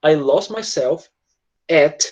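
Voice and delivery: each word slow and separate; slow model sentence. Shown as a demonstration. Teacher showing students the sentence slowly. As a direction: lay it out slowly for the class. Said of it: "você pode pegar essa frase".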